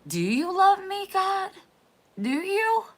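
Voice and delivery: mother crying out to God, high and desperate; pleading with God. Retold or imitated. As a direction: beg God like your heart is cracking open. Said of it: "she's just like".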